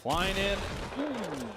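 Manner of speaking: high, loud hype call; excited call. Real, not acted. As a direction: shout it as the nade flies. Caster reacts to nade.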